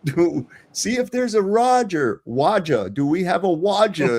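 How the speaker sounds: high, lisping Roman governor who turns R into W; mock a squeaky governor who can't say his R's; lisping Pilate. Pilate asks the mocking crowd for Rodney, in a high lisping voice. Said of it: "He kinda talks like that guy".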